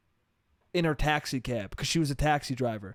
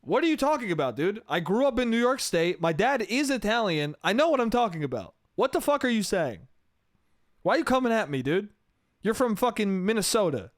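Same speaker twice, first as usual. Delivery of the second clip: higher-pitched, hammed-up protest; mock indignant rant; 5 semitones higher than usual. Comic defending his Italian dad's accent to a doubter, mock indignant. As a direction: argue back in comic outrage, pitched up.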